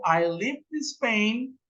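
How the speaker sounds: slow, careful example answer; a teacher's slow example answer; slow model answer. Shown as a demonstration. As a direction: spell out the answer for learners. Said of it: "yo puedo responder algo como".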